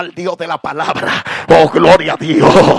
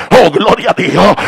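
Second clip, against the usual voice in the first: ordinary talk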